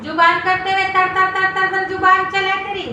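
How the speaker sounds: lightly voiced nagging mother-in-law; scolding mother-in-law. Mother-in-law berating her daughter-in-law over tea, mildly nagging.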